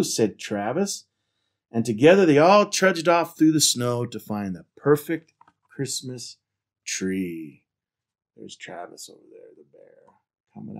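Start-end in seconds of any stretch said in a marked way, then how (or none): 0.0-7.6 animated picture-book reading; story narration. A narrator's reading. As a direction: read it out to children with lively emphasis. Reads picture book aloud.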